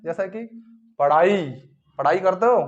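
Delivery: पढ़ाई drawn out, breathy ढ़ stressed; slow पढ़ाई. Shown as a demonstration. Teacher modelling पढ़ाई slowly for students. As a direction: stretch the ढ़ in पढ़ाई. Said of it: "हा का उच्चारण होता है इसमें".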